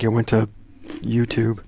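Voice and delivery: chewing ice while talking; ice in mouth. Real, not acted. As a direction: talk around ice cubes. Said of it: "Chew, chew a nice?".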